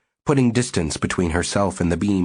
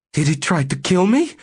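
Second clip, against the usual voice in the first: faint; 11 semitones higher, 3 dB louder than usual. A narrator's reading. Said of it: "asked faintly".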